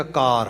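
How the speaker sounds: ਕਾਰ read as a word on its own; split-word misreading. Shown as a demonstration. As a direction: cut ਕਾਰ loose from the syllable before it. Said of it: "ਫਿਰ ਕਹੇਗਾ". (ਕਾਰ ਨੂੰ ਵੱਖਰਾ ਸ਼ਬਦ ਕਰਕੇ ਪੜ੍ਹੋ)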